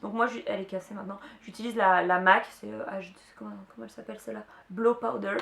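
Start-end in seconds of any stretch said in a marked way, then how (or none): 4.7-5.4 English product name in a French accent. Real, not acted. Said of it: "j'ai toujours un bel accent anglais". (anglais avec l'accent français)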